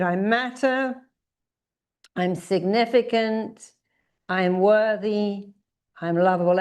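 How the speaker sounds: affirmation lead. Shown as a demonstration. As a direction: lead the chant with conviction. Leads affirmations.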